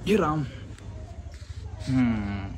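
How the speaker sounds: strained sigh after effort; straining groan. Real, not acted. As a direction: groan with tired legs. Climbing stairs after leg day.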